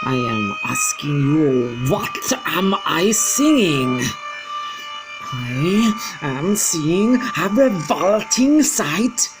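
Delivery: high, loud, slow disgusted witch rant; screaming witch. Acted. Grand High Witch raging at witches about children, shrieking. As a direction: build your revulsion at the children. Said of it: "she screamed".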